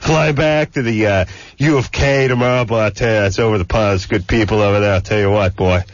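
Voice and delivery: lightly voiced good-ol'-boy radio jock; hammed-up country DJ. Host introducing guest as a folksy DJ, hammed-up. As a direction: ham up a folksy hick DJ intro. Hick DJ bit continues.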